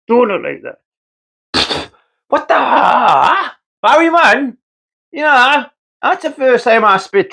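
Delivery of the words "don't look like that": slow drawn-out repeat. Acted.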